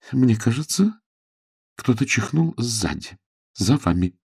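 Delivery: nervous remark. A narrator's reading. Lady warns someone sneezed behind Jane, nervously. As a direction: venture it uneasily, with pauses. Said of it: "нервно заметила миссис Хайнетт".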